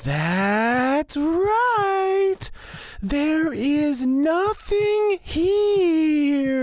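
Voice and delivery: monster roar. Acted. Monster roaring at the mortal man, a high shrieking cry. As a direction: roar it out like a beast.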